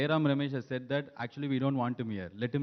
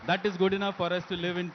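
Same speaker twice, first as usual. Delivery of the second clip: speaking through a real laugh; 5 semitones higher than usual. Real, not acted. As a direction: laugh through the words at your own joke. Jokes about knowing little Hindi.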